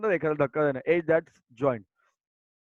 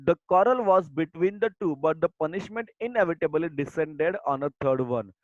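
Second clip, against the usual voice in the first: slow, deliberate textbook reading; reading aloud; much slower than usual. Acted. Teacher reading the lesson text to her students, slow and deliberate. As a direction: read each word out slowly for the class. Reads the English passage.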